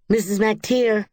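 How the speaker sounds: high, loud tattling call; hollering. A narrator's reading. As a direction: yell for the neighbor's mother to come. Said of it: "Rosemary hollered".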